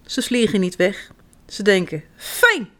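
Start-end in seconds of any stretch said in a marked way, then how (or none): 2.1-2.7 high, delighted exclamation; pleased bird. A narrator's reading. Birds glad to eat cherries again, pleased. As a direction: relish it in a high little voice.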